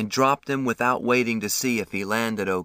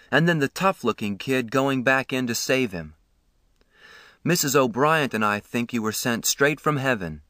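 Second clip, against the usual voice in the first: kindly man, a touch of awe; lightly voiced ambulance man, admiring; 2 semitones higher than usual. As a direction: praise the boys warmly.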